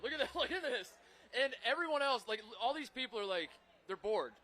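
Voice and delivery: a thrilled rush of "look at this"; excited. Real, not acted. Excitedly showing gator video.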